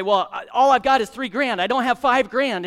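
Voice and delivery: buyer protesting. Acted.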